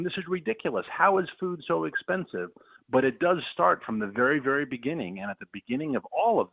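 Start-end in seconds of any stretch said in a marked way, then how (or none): 0.0-2.5 higher-pitched retelling of angry complaints; mildly imitated anger. Farmer quotes Americans at the grocery store, mildly mock-angry. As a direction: voice the exasperated shoppers, without shouting. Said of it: "they are angry".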